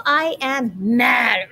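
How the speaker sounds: slow, mock-mad growl of the words; mock angry. Teacher acting out the picture for her class, mock angry. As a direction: act out being mad for the kids, slowly. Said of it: "it shows you a picture".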